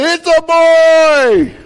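slow, high, loud triumphant shout; joyful shout. Retold or imitated. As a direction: stretch it out like a proud announcement.

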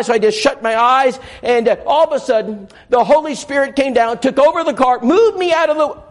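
mildly breathless, dramatic retelling; excited retelling. Retold or imitated. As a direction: tell it like a thrilling tale. Sheila's dramatic retold testimony.

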